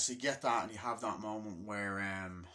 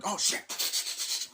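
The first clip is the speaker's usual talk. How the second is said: mock yelp; 11 semitones higher, 5 dB louder than usual.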